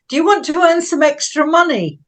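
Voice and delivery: light imitation of a posh girl's offer; quoting a posh stranger's odd proposal. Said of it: "she spoke in a very posh voice".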